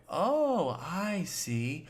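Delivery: a high, loud "Oh" sliding down into "I see"; varied tone. Shown as a demonstration. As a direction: swing the pitch up on the oh. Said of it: "Your tone is gonna be a different way".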